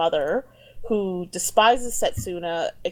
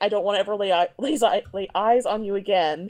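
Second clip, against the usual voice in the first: ordinary delivery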